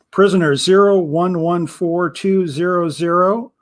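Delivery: slow, teasing the suspense; cruel drawn-out reading. Acted. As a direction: stretch each digit out cruelly. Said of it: "Magnus paused cruelly".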